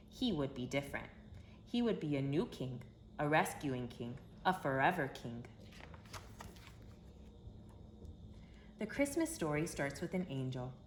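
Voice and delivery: gentle, storybook read-aloud voice; reading to children. A narrator's reading. Narrator telling kids the Christmas story, storybook voice. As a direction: tell it like a bedtime story for little ones.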